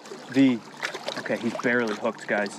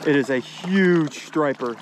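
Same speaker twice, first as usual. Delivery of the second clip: excited exclaim; 3 semitones higher, 4 dB louder, slower than usual. Real, not acted. Landing surprise big fish.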